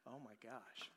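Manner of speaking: stunned under the breath, realizing; awed hush. Retold or imitated. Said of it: "I was like".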